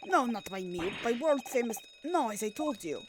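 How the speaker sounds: burly sailor reporting to his officer in a lightly put-on Russian accent; a flustered crewman covering up, light Russian accent.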